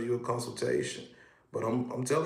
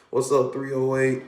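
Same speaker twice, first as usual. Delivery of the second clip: loud call-out; 7 dB louder than usual. Real, not acted. Host calling out to live chat.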